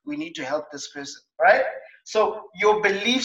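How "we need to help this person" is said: sympathetic. Retold or imitated. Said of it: "Now your behavior is".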